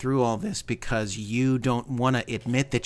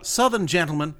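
a hint of a blustery Southern gentleman; Foghorn Leghorn. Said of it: "Casper doing literally a Foghorn Leghorn impression".

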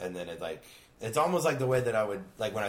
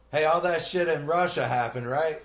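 higher, louder put-on voice through laughter; mock pilot address; 7 semitones higher, 5 dB louder, slower than usual. Pilot bragging to passengers, hammed-up put-on voice. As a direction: ham it up like a shady pilot on the intercom. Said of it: "You stand up and go".

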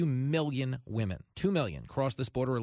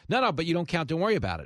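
mock Pacino waving it off, a bit louder and higher; insistent brush-off; 5 semitones higher, 3 dB louder, much faster than usual. Salesman insisting to the buyer, louder mock brush-off. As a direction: push the claim confidently, don't let them count.

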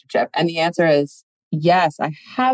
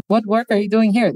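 higher-pitched, badly faked Swedish accent; terrible Swedish accent; 5 semitones higher than usual. Girlfriend questioning the work trip, badly faked Swedish accent. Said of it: "This is, like, my terrible, that's not even a Swedish accent".

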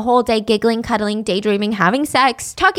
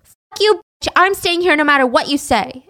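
snapped; 4 semitones higher, 4 dB louder than usual. Retold or imitated. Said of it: "And Wendy snapped".

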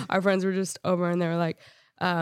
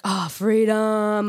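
drawn-out gleeful cry of freedom; slow, savoring exclamation; mock relief; much slower than usual. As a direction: stretch it out luxuriously. Celebrating having the house alone.

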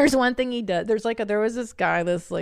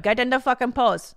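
mock chastising; 4 semitones higher, 3 dB louder than usual. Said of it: "chastising this woman".

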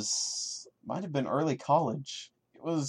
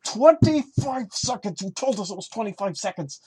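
much higher, incredulous cry at the story; exasperated outburst; 10 semitones higher, 4 dB louder than usual. Real, not acted. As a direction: throw your hands up at the absurd detail. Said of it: "as upset as I've sounded".

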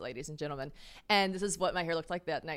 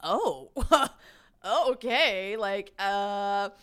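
taken aback; 5 dB louder, much slower than usual. Retold or imitated. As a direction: imitate someone thrown, with a laugh. Acting date's taken-aback reaction.

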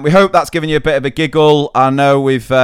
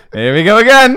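weary sigh voice; 9 semitones higher, 7 dB louder than usual. Retold or imitated. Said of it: "the next one is like".

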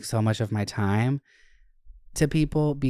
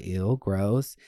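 hushed whisper of disgust; a breathy whispered ew; 3 semitones lower, 3 dB quieter than usual. Retold or imitated. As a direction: whisper it, grossed out. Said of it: "and I'm like".

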